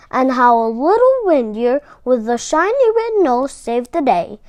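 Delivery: put-on friendly storybook narration for kids; gentle storyteller voice for little ones; reading to children. A narrator's reading. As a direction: tell it like a kindly snowman to the children. Sam the Snowman narrator intro.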